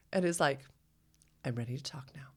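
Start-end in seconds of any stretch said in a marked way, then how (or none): 1.5-2.3 soft, hushed, overly patient offer; hushed mock calm; mock whisper. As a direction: tease him with a gentle, whispered invitation. Mimicking Trey sitting up in bed.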